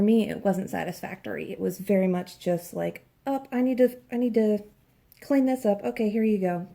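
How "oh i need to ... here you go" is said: lightly mimicked author, raised pitch; mock hasty author. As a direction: put on a mildly higher voice for an offhand author. Mimics author hastily wrapping up book.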